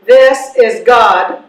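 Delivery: a hint of God's answering machine. Recorded God answering Mabel's prayer, lightly solemn. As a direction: intone it like a recorded deity.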